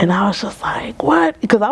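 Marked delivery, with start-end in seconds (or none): 1.0-1.4 high, louder incredulous "what"; retold surprise. Client recalls her reaction to counselor's offer, surprised. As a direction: blurt a baffled what, pitched way up. Acted shocked reply in retold story.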